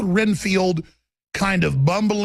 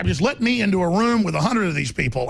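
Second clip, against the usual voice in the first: normal talking voice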